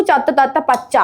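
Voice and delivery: quick, joined-up twister; speedy tongue twister. Shown as a demonstration. Showing a friend the fast version, quickly. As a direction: run the words together briskly. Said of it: "speed പറയൂ".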